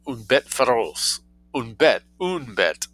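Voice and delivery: slow, firm stress on bête; correcting. Acted. Matilda correcting her French, firm stress on bête. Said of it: "corrected Matilda".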